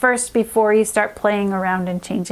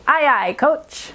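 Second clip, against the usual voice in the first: cheerful call; 4 semitones higher, slower than usual. Shown as a demonstration. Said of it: "high five and say".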